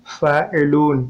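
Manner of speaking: फ़ाइलून with a long "loo", closed on n; long waw before nun. Shown as a demonstration. Teacher showing waw added after laam, फ़ाइलून with long "oo". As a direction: stretch the "oo" in फ़ाइलून before the final n. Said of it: "लाम के बाद वाव को".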